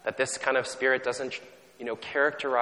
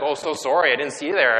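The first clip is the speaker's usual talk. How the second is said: over-polite apology; 4 semitones higher, 7 dB louder than usual. Retold or imitated. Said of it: "She's like".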